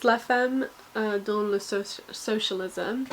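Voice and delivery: the French title said slowly in an awkward, self-conscious French accent; terrible French accent. Shown as a demonstration. Booktuber reading her mum's French book title, in a clumsy French accent. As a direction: try the French title in a hesitant French accent and trip a little. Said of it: "sorry for my terrible French accent".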